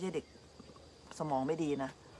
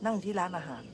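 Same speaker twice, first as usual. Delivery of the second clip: ordinary talk, nothing marked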